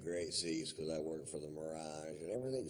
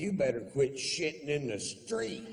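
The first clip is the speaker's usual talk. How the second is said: loud comeback; 7 semitones higher, 6 dB louder than usual. Retold or imitated. Snapping back at her.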